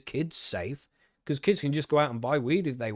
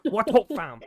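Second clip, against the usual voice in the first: higher, louder London street voice; roadman accent; 6 semitones higher, 5 dB louder than usual. Retold or imitated. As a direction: greet like a cocky roadman. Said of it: "talking like a roadman".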